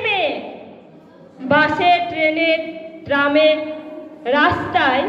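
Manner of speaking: dramatic Bengali verse recital, deliberate pauses between phrases; poem recitation. Acted. Former student reciting a poem in tribute to the principal, dramatic recitation. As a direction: declaim it, rising and falling with each refrain.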